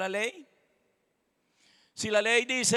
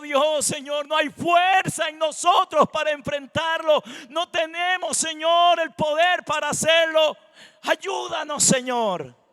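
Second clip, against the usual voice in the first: raised-pitch plea to God; pleading prayer; 7 semitones higher, 6 dB louder than usual. Acted. King praying before a great battle, pleading. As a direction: cry out for help, preacher-style.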